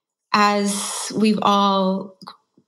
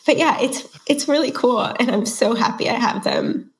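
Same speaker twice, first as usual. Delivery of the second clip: teary; 4 semitones higher than usual. Real, not acted. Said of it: "I'm getting teary-eyed".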